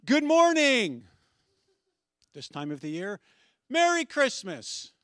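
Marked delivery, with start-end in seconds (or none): 0.0-1.1 very high, loud, drawn-out holler; yelling. Retold or imitated. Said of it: "but we yell things like". 3.7-4.9 high, slow holiday holler; yelling. Retold or imitated. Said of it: "but we yell things like".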